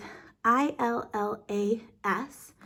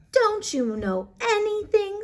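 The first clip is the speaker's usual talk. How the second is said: high, scornful cat voice; exasperated cat; 11 semitones higher, 4 dB louder than usual. Acted. Cat scolding the frog for not knowing anything. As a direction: sneer it like a know-it-all cat.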